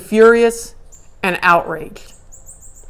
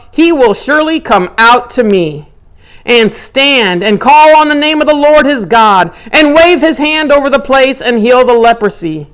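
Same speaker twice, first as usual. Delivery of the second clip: grand expectation; 4 semitones higher, 4 dB louder than usual. Retold or imitated. Naaman's grand expected healing.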